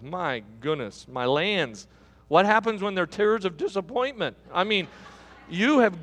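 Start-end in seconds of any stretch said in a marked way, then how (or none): 0.0-4.4 low, subdued mock dismay; dismayed aside. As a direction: drop way down for a private thought. Muttered aside after groom's excuse.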